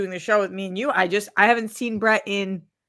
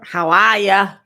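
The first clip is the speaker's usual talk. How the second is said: goofy voice; 6 dB louder than usual. Pretend. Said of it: "what are you trying to do right there?".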